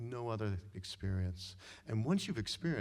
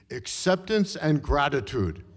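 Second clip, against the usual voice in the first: put-on louder, "acceptance" hammered in a Hungarian accent; emphatic repeat; 3 semitones higher, 10 dB louder than usual. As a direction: drive "acceptance and gratitude" home, Hungarian accent. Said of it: "I repeat".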